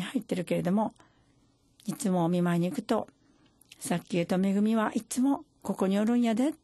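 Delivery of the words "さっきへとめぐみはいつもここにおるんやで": gently imitating an old man's Kyoto dialect; lightly voiced Kyoto-dialect grandpa; a hint of Kyoto dialect, rising. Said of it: "って京都弁で".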